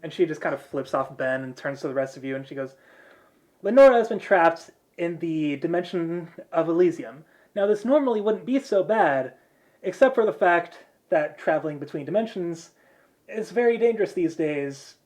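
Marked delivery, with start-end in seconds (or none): 3.6-14.9 a hint of grave briefing authority; lightly acted explanation, pitched a little up; lightly voiced mission leader. Blonde girl warning the group about dimensions, lightly voiced leader.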